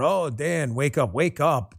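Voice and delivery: slow, sneering mock of online critics; a mock taunt, slowed and sneering. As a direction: drag out the taunt like a smug troll. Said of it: "I had a couple wise guys on Twitter".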